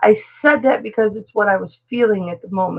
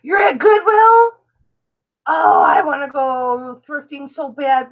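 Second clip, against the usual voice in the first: excited friend; 3 semitones higher, slower than usual. Retold or imitated. Voicing a friend's excited message.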